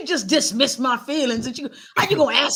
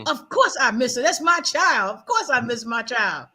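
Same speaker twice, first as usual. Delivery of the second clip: granny's retort. Retold or imitated. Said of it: "She said".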